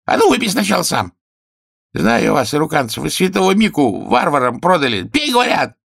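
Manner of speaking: high, loud, quick commanding; suspicious king. Acted. King ordering the healer to drink first, loud and suspicious.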